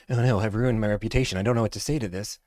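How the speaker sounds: lightly voiced panicking caller, mock panic; a hint of a flustered salesman. Mocking a panicking salesman on the phone, mild mock panic. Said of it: "Now this guy's panicking".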